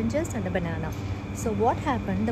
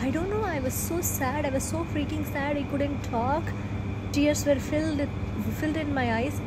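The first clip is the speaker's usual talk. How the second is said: 1 getting emotional; 5 semitones higher than usual. Real, not acted. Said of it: "you can see I'm getting emotional".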